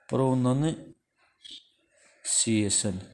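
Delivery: प्रोनंसिएशन whispered very slowly, syllable by syllable; whispered slow sounding out of प्रोनंसिएशन. Shown as a demonstration. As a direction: breathe out प्रोनंसिएशन in a whisper, stretching every syllable. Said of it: "प्रोनाउंसिएशन का उच्चारण हम कैसे करेंगे".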